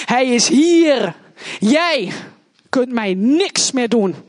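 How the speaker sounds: slowly, calmly certain; slow defiant declaration. Retold or imitated. To her attacker, slow calm triumphant declaration. Defying the violent ex.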